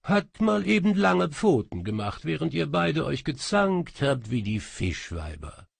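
high, loud, proud cat proclamation; the cat djinn presents itself, high and loud; announcing cat djinn. Acted. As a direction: announce yourself grandly. Cat djinn mocks them.

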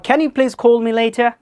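slow model line, puff of air on 'call'; example with aspirated k. Shown as a demonstration. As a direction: breathe out on 'Can' and 'call'. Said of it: "Like this". ('call' ধীরে মহাপ্রাণ খ দিয়ে)

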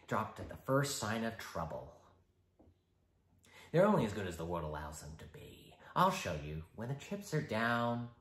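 shifting, mocking, menacing Joker; icy polite interrogator. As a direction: lecture him with menace. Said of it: "the Joker".

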